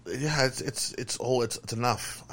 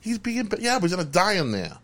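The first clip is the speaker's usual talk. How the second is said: panicked brother; 10 semitones higher than usual. Retold or imitated.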